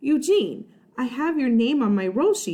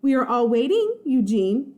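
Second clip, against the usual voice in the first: stern teacher reminder; 4 semitones higher, 3 dB louder than usual. Acted. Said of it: "Miss Beasley reminded".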